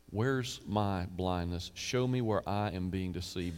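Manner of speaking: humble prayer. Acted. Prayer asking God to show.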